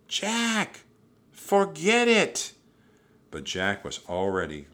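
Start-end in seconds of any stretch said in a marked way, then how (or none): 0.1-2.5 high, loud, stretched-out shout; urgent yelling. A narrator's reading. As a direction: yell after him to stop him. Annie yelling after Jack.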